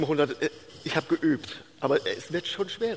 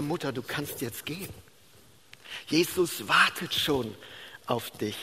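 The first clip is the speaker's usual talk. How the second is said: leise, ruhig und langsamer werdend; behutsamer Abschied; 4 dB quieter than usual. Retold or imitated. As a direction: lass die Mutter sanft gehen. Verabschiedet die sterbende Mutter. (tröstend leise, am Ende tief)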